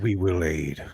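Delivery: hushed whispered promise. Acted. Krathor promising aid to the elder, whispered. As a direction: breathe it out as a whisper.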